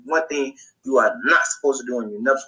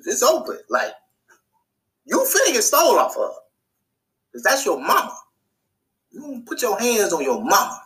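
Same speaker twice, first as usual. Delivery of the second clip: much higher, egging-on voice; higher, worked-up street talk; hyped-up; 8 semitones higher than usual. Retold or imitated. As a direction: cheer for the beating like a fan. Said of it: "'Cause I was like".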